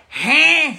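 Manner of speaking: high, loud "Huh?" straining to hear; playing the hard-of-hearing father-in-law; deaf old man with ear horn. Pastor imitates father-in-law straining to hear, high and loud. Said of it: "be like one of those old films where they put one of those horns".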